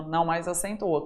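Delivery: ordinary talk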